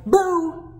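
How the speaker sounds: sudden loud high "Boo!"; shouted boo. Acted. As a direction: jump out and shout it. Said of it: "then she shouted".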